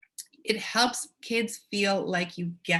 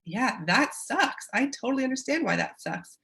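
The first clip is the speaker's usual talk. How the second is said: sympathetic parent; 5 semitones higher than usual. Shown as a demonstration. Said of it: "when their parent says to them".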